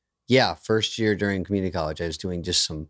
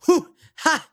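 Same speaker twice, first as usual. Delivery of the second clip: laughing mock slow motion; 14 semitones higher, 4 dB louder, much slower than usual.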